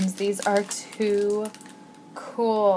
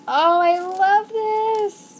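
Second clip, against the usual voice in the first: high, loud and drawn-out delight; excited squeal; 11 semitones higher, 9 dB louder, much slower than usual. Real, not acted. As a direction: squeal it slowly like a thrilled fan. Gushing over pink rose.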